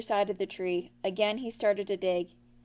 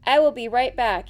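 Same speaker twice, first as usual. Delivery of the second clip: louder, keen promise; eager Roo; 9 dB louder than usual. A narrator's reading. Roo dashing off for a sheet, eager. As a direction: rush it out excitedly.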